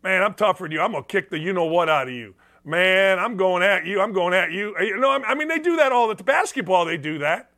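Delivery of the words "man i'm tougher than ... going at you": trash talk. Retold or imitated. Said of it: "they say it to each other all the time".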